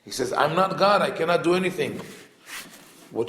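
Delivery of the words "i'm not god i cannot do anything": frustrated. Retold or imitated. Yaakov answering Rachel's demand, frustrated. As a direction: throw up your hands, he can't fix it. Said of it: "He is frustrated because he cannot solve her problem".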